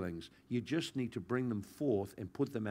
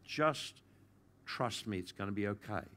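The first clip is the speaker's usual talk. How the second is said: gentle reassurance. Retold or imitated. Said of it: "the Lord gently just said to me".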